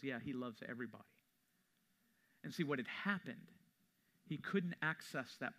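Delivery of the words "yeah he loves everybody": quick, softer, dismissive brush-off; stone-cold dismissal. Retold or imitated. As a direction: toss it off flatly and fast, unmoved. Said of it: "with a stone-cold face and says".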